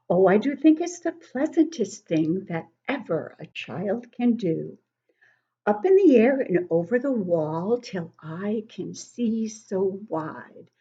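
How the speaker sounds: sing-song poem recital, rising and falling; poem reading. Acted. Grandmother reading a poem to children, sing-song. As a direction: read the verses like a swing moving.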